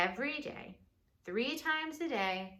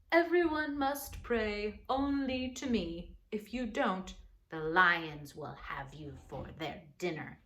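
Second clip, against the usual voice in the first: king's decree; 3 dB louder than usual. Acted. King decreeing that all pray only to him. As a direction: proclaim it like a proud king. King announces new law.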